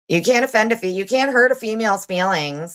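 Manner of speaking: sarcastic mockery. Mocking lawsuit wording.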